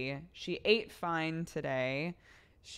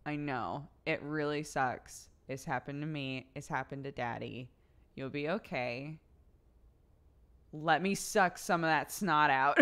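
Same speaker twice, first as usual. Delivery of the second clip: put-on tender comfort to baby. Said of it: "look at my daughter and say".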